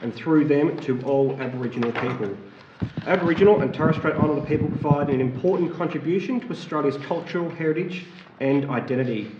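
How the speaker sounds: measured, formal address to council; formal acknowledgement. Acted. Councillor opening the meeting with a formal acknowledgement. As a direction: read it out as an official statement.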